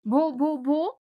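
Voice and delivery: mild mock stammer on the name. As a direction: stutter the first syllable lightly. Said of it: "she began to stammer".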